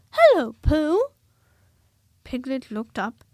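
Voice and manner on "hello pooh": high, very loud cheerful hello; cheerful greeting. A narrator's reading. Christopher Robin greeting Pooh, loud cheerful hello. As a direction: greet a friend brightly.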